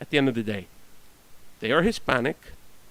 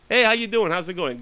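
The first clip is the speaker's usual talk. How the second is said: neighbor's friendly hi; 4 semitones higher than usual. Retold or imitated. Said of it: "Now he says hi to me".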